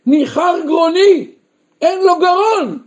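rising preacher's lament; impassioned cry. Acted. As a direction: cry it as if hoarse from calling. Preacher voicing sore throat.

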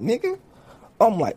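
normal talking voice

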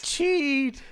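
high, loud yell. Acted. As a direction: holler it as if calling across a ship. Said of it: "Both boys yelled together".

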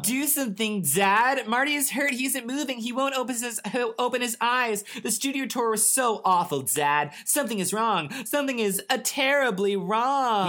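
put-on high-pitched urgent child's plea; frantic pleading. A narrator's reading. Aaron begging dad for hurt Marty, high and frantic.

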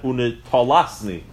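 unitalasni with "taw" in the middle; kamatz spelling. Shown as a demonstration. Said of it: "the kamatz".

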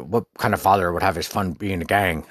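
put-on scolding reviewer voice; mock a judgmental film reviewer; imitated disapproving reviewer. Parent reviewer condemning the gorilla father, mock disapproval. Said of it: "what the person sounded like too".

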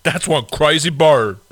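slow, loud, amazed line; drawn-out wide-eyed delivery; Brian Fellows impression. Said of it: "I can do Brian Fellows".

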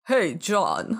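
loud call in a bad Russian accent; lousy Russian accent. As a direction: hail him like a hammy Russian robot voice. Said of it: "read out loud in a lousy Russian accent".

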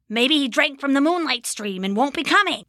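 a worried little goblin wondering aloud; shortest goblin. Acted. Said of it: "the shortest one said".

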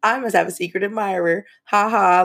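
rubbing it in, mock smug; a sing-song brag with a teasing laugh; smug gloating. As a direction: taunt the boyfriend with a smug brag. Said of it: "just rubbing it in his face".

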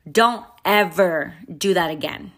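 imitated stern warning, each word weighted; angry scolding. Woman scolds a child who startled her, restrained anger. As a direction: retell a very angry telling-off without yelling. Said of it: "In that tone".

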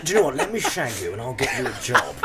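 lightly voiced minister making a sleazy offer; Matt Hancock. Health secretary propositioning a contestant, mock-sleazy. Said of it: "Matt Hancock would be terrible at this".

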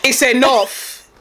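slow, drawn-out "enough" as an imitated Nigerian parent; lightly voiced fed-up Nigerian parent; mock a parent cutting off the fuss. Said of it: "They'll be like".

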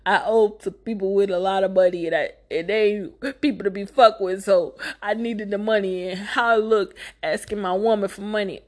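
imitating a tearful excuse with catches of breath; mock-sobbing plea; mock crying. Husband making excuses for the money, mock crying. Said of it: "he gonna sit there crying".

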